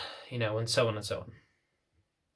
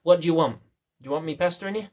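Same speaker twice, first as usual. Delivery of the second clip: normal talking voice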